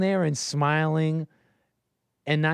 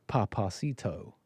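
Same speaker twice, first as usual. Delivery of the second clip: low, slow Spanglish drawl, softly imitating; imitation Spanglish accent, drawn out; mock Spanglish accent; 5 semitones lower, 7 dB quieter, slower than usual. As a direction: mimic a sultry Spanglish delivery, slowly. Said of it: "She still said it like Spanglish".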